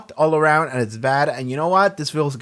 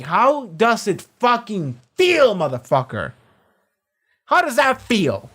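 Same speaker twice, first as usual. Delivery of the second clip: gloating taunt; 5 semitones higher than usual. Acted. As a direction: rub it in, stretching out the key words. Gleeful taunt at the Deep's suffering.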